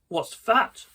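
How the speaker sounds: high, loud startled cry; shriek. Acted. Boy spotting a hole in the couch, startled shriek. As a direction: yelp it out at the sight. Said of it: "I shrieked".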